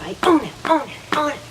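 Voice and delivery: rising, revved-up chant; getting jazzed. Shown as a demonstration. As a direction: pump yourself up with each repeat. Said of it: "'Cause, see, I'm getting jazzed".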